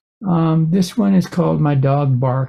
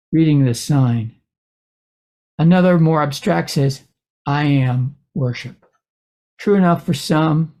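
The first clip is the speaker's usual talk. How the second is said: measured reading with pauses between phrases; poem reading. Acted. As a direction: read your poem, phrase by phrase. Reads a poem aloud.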